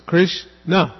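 Krishna as two separate syllables, Krish, na; split into syllables. Shown as a demonstration. Teacher showing two syllables, Krishna split apart. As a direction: break Krishna after Krish, then a distinct na. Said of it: "is two syllables".

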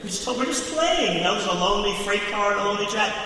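put-on high, fast little-kid pleading; mock childish protest. Boys protesting to the railroad cop, high mock plea. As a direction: squeak out an innocent excuse.

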